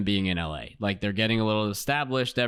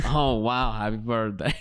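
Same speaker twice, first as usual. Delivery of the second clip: imitated foreign accent; lightly mock an unplaceable accent; Tommy's accent; 3 semitones lower than usual. Man dodging questions about his age, mock accent. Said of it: "He has this clear accent".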